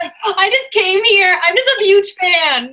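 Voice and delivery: gushing superfan. Pretend. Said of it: "mock reply as Sasha".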